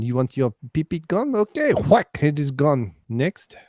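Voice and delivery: mock French accent, nose in the air; snooty French accent. Shown as a demonstration. Retaking the surgeon's line for friends in a snooty French accent. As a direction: redo the line as a haughty Frenchman. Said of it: "put my nose in the air and say it again".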